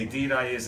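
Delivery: "Indeed" cut to "deed"; Newfoundland form. Shown as a demonstration. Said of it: "it's just deed".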